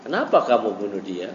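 just ask, no pressure; plain asking. Shown as a demonstration. Teacher showing how the Prophet did not ask, plain mild query. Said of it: "bukan nanya".

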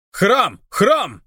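высокие радостные выкрики, повтор слова; вопят от восторга; радостный вопль. Acted. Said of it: "завопили оба". (двое друзей вопят новость Алексу)

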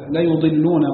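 لا يضلون read as "la-yudilluna", u after the y; damma on ya. Shown as a demonstration. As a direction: round the y of يضلون to "yu". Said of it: "بضم الياء فيهما". (يُضلون بضم الياء)

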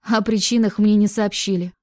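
usual speaking voice

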